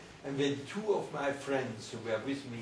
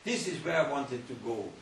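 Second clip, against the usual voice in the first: eager longing; 4 semitones higher than usual. Retold or imitated. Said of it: "I said to myself".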